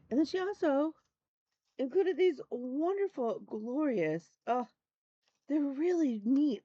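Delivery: high, thrilled gift-opening voice; delighted gushing. Real, not acted. Gushing over floss drops gift.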